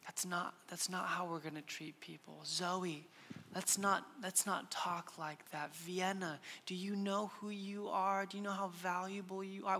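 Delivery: put-on very soft, hushed dad talking to his child; whisper. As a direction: drop to a near-whisper, tender but firm. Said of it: "I look at their eyes and I whisper".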